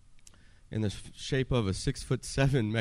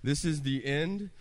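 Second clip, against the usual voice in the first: panicked thoughts; 6 semitones higher than usual. Retold or imitated. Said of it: "So now I'm thinking".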